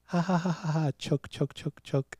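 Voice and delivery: mock laugh running into repeated "choke" meant as "joke"; mispronounced joke. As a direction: imitate a learner laughing "ha, ha", then "choke" with a ch. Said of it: "It's not choke, it's joke".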